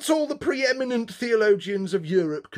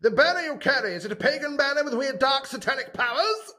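sinister inquisitor; 9 semitones higher, faster than usual. Acted. Inquisitor's loaded question.

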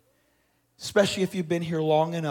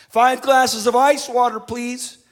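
louder, higher call across a busy store; 8 semitones higher, 8 dB louder than usual. Retold or imitated. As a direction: call out the order over the crowd. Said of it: "a father called out".

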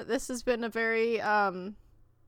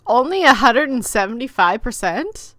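surprised; 9 dB louder than usual. Real, not acted. Mock disbelief at screen time.

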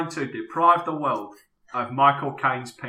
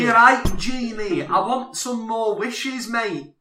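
Aladdin voice; 8 semitones higher than usual. Acted. Aladdin voiced, improvised scene.

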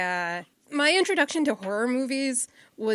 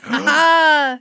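mock surprise; 4 semitones higher, 10 dB louder than usual. Real, not acted.

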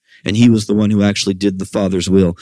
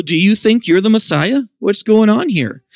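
incredulous priests; 9 semitones higher than usual. Retold or imitated. Elders confront Jesus over the temple, high and incredulous. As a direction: press the question like an affronted elder.

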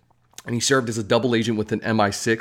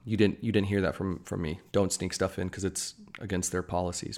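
conspiratorial hush; 3 semitones lower, 9 dB quieter than usual. Pretend. Sneaking snacks into theaters, joking.

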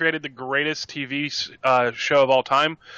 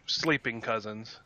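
put-on Southern accent; 5 semitones lower, 4 dB quieter than usual. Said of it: "As they say in the South".

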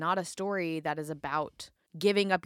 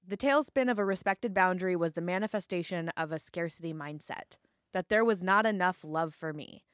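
measured reading aloud; narrating from a memoir; book excerpt reading. Acted. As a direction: read the passage out to listeners, phrase by phrase.

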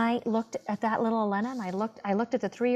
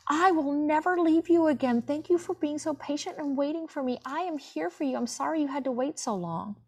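put-on tender to her child self; 4 semitones higher than usual. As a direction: gently reassure a scared little girl. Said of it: "And I was like".

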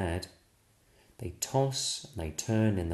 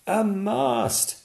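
much higher, loud happy dad; cheerful yell; 11 semitones higher, 4 dB louder than usual. Acted. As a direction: shout it out on the beach. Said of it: "yells the dad".

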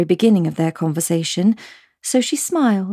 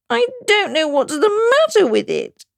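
high, tearful melancholy; 13 semitones higher than usual. Acted. Queen sighing over her shawl. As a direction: let it wobble near tears. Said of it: "in a melancholy voice".

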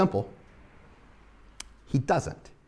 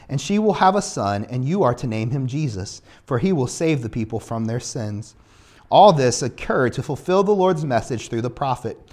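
low, measured Bible reading; scripture reading; 7 semitones lower than usual. A narrator's reading. Preacher reads the angel's message to Joseph, solemn reading. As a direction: read the verse aloud in a lower, even voice.

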